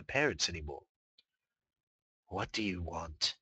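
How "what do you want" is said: slow, soft petulant whisper; sulky whisper. Acted. Dark inner voice sulking at Luna, whispered. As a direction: sulk it like a scolded filly.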